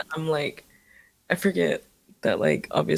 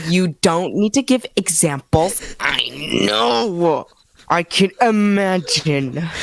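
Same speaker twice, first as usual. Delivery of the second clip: loud, drawn-out protest; exasperated protest; 4 dB louder, slower than usual. Real, not acted. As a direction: plead loudly that no examples are needed. Scared co-host protesting scary examples.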